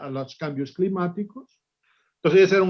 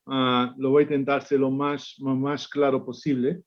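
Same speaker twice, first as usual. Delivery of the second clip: Spanish with a Portuguese accent; Portuguese speaker talking Spanish; portuñol; 2 semitones lower than usual. Real, not acted. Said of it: "mi portuñol".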